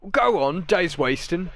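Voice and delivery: high, loud gruff boss role; impatient foreman. Acted. Warehouse boss hurries a visitor asking about an employee, loud impatience. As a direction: hurry them along loudly.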